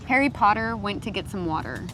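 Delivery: "Harry Potter went to get some water" in an American accent with flapped Ts. Shown as a demonstration. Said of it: "Try the same sentence, but American".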